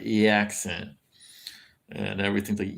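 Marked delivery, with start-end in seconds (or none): 0.1-0.9 imitating "accent" with an "e" vowel up front; the A in "accent" shifted to an E; local accent vowel. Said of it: "they don't say accent, they'll say".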